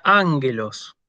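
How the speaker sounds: ángelos stressed on the first syllable ÁN; Greek model word. Shown as a demonstration. Teacher reads the next word, stress on initial alfa. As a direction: hit the opening a of ángelos. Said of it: "el acento sobre la alfa, inicial".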